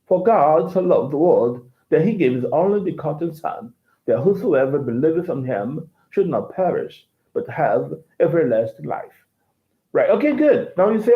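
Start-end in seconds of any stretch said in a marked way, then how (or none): 0.1-9.2 understated British English accent. Shown as a demonstration. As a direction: read the verse as a Brit would. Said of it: "British accent".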